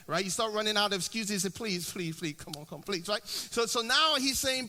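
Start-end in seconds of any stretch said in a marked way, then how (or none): 1.5-3.1 soft, pleading please; hushed, half-whispered begging plea. Retold or imitated. Moses begging God, softly pleading. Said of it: "he begins begging and pleading".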